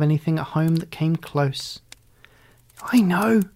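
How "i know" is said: excited shriek. A narrator's reading. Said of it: "Alley Cat shrieked".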